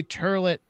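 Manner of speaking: "turlet" without any southern twang; oi becomes er in "turlet"; toilet said "turlet". Shown as a demonstration. Comedian explaining the joke word, toilet as "turlet". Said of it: "but not, like, in a southern twang".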